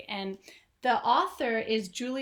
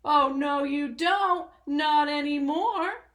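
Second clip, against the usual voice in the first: louder, firm declaration; declared; 4 semitones higher, 6 dB louder, slower than usual. Acted. Storyteller voicing the rat refusing the ants, louder and firm. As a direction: slam it down as the boss. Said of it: "declared the highway thief".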